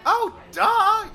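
snooty duh. Acted. Diva brushes off question.

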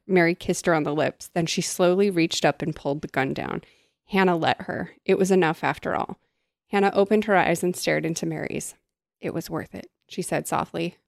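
soft, quiet read-aloud; story reading. A narrator's reading. Reading the novel's ending to her co-host, quiet. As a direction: read the book's final scene softly.

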